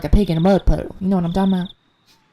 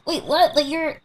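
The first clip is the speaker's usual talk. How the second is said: higher-pitched mock disbelief; baffled; 6 semitones higher than usual. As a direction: act out amused, puzzled protest. Acting out own baffled reaction.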